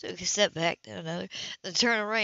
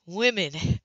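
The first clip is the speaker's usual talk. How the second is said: level, considering; 3 semitones lower than usual. Acted. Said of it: "in a level, considering voice".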